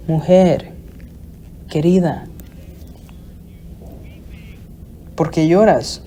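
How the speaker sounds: gentle, noble address with long pauses; a soft angel's concern, never harsh; tender, affectionate. Acted. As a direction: ask her gently, as to someone dear. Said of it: "es con afecto, hay una nobleza en eso, no está hablando con dureza".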